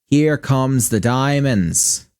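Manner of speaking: put-on stretched-out, slow Midwestern accent savoring the diamonds. Gamer gloating over diamond loot in a slow Midwestern accent. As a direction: draw it out like a proud Midwesterner. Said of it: "exaggerated Midwestern accent".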